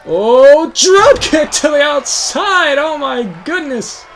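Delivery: loud, high, drawn-out exclamation; excited commentator call. Real, not acted. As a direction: call the big move in amazement. Commentator reacts to drop kick.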